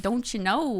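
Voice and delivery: lightly imitated Minnesota accent; a hint of Minnesota in the voice. Podcaster quoting what they say in Minnesota, light Minnesota accent. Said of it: "What do they say in Minnesota?".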